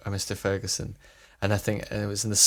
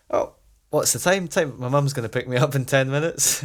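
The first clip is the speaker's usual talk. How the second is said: higher, flustered rush of panic; mock panic; 4 semitones higher than usual. Teen panicking to friends about mum's pickup, flustered. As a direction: act the kid panicking about the time.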